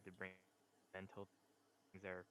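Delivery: choppy audio; audio cutting out. Real, not acted. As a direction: voice breaking up on a bad line. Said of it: "your audio keeps cutting out a bit".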